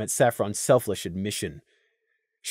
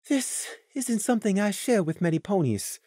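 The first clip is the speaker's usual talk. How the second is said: soft, higher, composed voice; calm; 4 semitones higher, 8 dB quieter than usual. A narrator's reading. Saffron about to share a secret, calm. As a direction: confide calmly and softly. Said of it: "Saffron Swirl's calm voice came".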